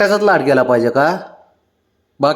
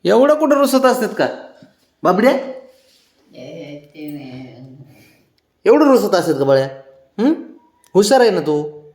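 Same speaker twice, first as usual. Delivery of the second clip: high teasing coax; 5 semitones higher than usual. Real, not acted. Teasing sulking pet, pitch up.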